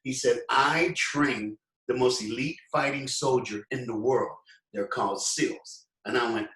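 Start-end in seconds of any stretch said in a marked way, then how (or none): 0.5-5.9 slow, measured delivery as the admiral; imitated deep voice. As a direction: impersonate a commanding admiral, sinking lower at the end. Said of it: "real deep voice".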